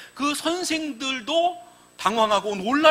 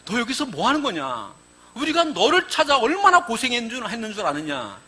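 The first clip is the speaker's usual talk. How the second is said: Mary scolding gently. Retold or imitated. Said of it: "마리아가 한 말씀 하게 되지요".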